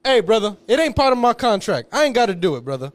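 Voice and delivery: gruff hey-brother refusal; brusque brush-off. Retold or imitated. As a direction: wave off the fan loudly. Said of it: "And he goes".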